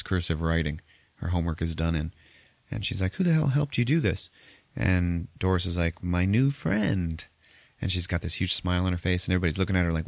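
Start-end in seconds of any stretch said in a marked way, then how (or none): 3.1-4.3 incredulous mom. Retold or imitated. Retells mom confronting her daughter. 6.0-7.2 put-on eerie little girl. Retells eerie child's answer.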